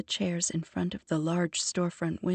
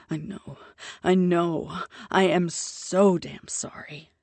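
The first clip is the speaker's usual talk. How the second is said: groaned apology; 4 dB louder than usual. Acted. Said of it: "he groans".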